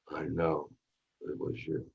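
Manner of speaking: barely breathed, almost no voice; whisper. Retold or imitated. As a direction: sink to a whisper right over her. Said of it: "each line gets softer and softer".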